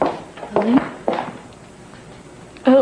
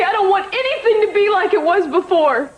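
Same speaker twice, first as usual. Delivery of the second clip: tearful. Acted. Grieving daughter rejecting help.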